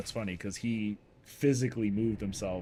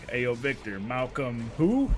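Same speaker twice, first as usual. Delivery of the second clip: quizzing call; 3 semitones higher, 4 dB louder than usual. Retold or imitated. Mike quizzing again.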